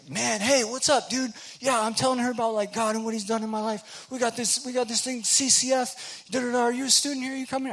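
high, loud, booming friendly dude; loudest guy ever. Retold or imitated. Kevin Earnest inviting the newcomer, booming and friendly. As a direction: greet a stranger like a long-lost buddy at full volume. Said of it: "the loudest human being I've ever known".

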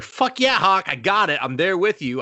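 high, hyped fan gushing; fanboy excitement. Retold or imitated. Fire marshal gushing over Hawk's paint job. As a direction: pump it up like a superfan.

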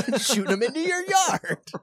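high, loud taunting voice; mocking the neighbor. Neighbor taunting the leaf-raker, high and mocking. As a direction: sneer at him like a petty villain. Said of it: "You're like".

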